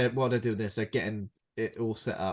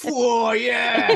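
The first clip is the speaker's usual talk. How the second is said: high, loud laughing whoa yeah; hammed-up delight at the dress, pitched way up; mock excited whoop; 12 semitones higher, 9 dB louder than usual. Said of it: "He goes, he goes".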